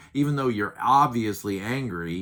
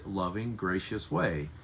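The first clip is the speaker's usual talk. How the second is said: ordinary delivery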